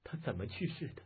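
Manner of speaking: soft, mildly sobbing question; tearful question. Acted. Wife asking how her husband died, soft tearful voice. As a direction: ask through restrained, acted sobs. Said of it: "抽抽噎噎道".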